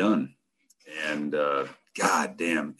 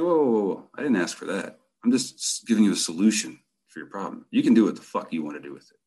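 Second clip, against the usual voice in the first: put-on hippie girlfriend; 2 semitones higher than usual. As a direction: back off easy like a mellow hippie. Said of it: "she's very hippie".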